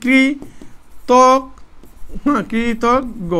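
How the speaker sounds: কৃতজ্ঞ drawn out slowly, syllable by syllable; teacher sounding out কৃতজ্ঞ very slowly; syllable-by-syllable pronunciation. Shown as a demonstration. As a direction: say কৃতজ্ঞ in slow, separated syllables. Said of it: "কৃতজ্ঞ শব্দের উচ্চারণ".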